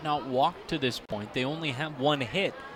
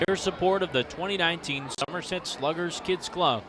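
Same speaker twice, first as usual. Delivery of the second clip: ad read. Acted. Sponsor ad read.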